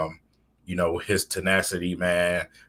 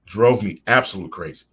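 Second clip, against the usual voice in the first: louder emphasis; 2 semitones higher, 6 dB louder than usual. Shown as a demonstration. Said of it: "repeats line".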